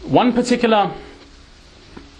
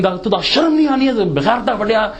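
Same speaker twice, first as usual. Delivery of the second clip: mock scolding, pitched up at the start; retold angry mum. Mum reacting to youngster's career wish, mock-angry scolding. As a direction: imitate a mum telling off her child, mildly. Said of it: "The mum bichari went mad".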